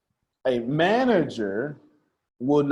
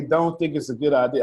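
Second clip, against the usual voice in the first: cousin impression. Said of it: "that's exactly what his voice sound like".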